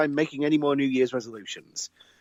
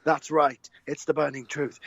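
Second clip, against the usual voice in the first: announcing like a circus ringmaster; grand showman introduction. Acted. Circus-style show introduction.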